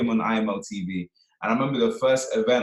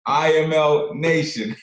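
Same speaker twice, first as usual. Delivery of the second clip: hype call; 6 semitones higher, 5 dB louder, much slower than usual. Retold or imitated. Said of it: "he's gonna say".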